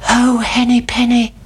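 high little chick voice; Chicken Licken. A narrator's reading. Chick runs to tell the king, high and urgent. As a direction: pipe it up like an alarmed chick. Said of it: "said Chicken Licken".

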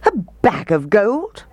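high, indignant question; outraged roar. A narrator's reading. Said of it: "roared the mayor".

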